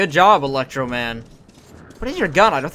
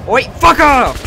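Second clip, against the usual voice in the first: louder angry shout; 8 semitones higher, 9 dB louder, much slower than usual. Real, not acted. Yelling again, louder.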